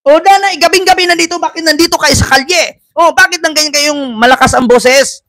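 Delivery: high mock policewoman scolding; nananakot na pulis. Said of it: "laging mukintab yung mukha na singkit".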